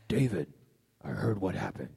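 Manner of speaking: a hint of a low, stern mother; lightly voiced mom, heavy and ominous. Mother greeting her son after the police call, lightly voiced stern mom. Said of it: "My mom had a really low voice".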